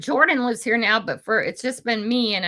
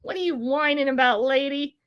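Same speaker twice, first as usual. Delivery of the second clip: higher mock scolding of granny; mock viewers scolding; 8 semitones higher than usual. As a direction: tease the whining lady in a high voice. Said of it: "and you guys are going".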